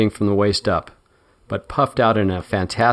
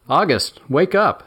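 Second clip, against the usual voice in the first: male drag queen voice; 8 semitones higher than usual. Acted. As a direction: call him awake. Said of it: "in a distinctly male voice".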